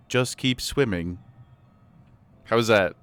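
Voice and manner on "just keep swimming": slow, soft, emotionless robot. Pretend. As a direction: read it like a flat text-to-speech bot. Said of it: "I could just say it in a robot voice".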